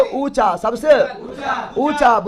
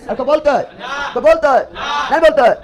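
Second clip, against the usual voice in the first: prodding the class louder each time; building louder; 3 dB louder, faster than usual. Real, not acted. Teacher demanding an answer, growing louder. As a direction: raise the voice with every repeat.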